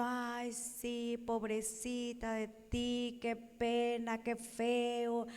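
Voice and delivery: soft, slow hint of sugary pity; mock pity. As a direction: coo fake sympathy. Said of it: "que te estén diciendo".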